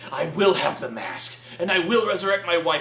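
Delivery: mock-grand villain vow; lightly voiced menacing villain declaring his plan. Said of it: "Stephen Lang will be like".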